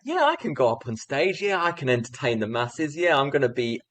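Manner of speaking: retold cockiness, lively and pushy; overconfident. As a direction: brag like an overconfident young teacher. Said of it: "I had all of this overconfidence".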